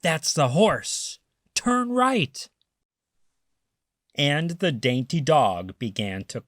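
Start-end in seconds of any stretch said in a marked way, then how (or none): 0.0-2.5 thief voice. Acted. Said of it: "and Len said".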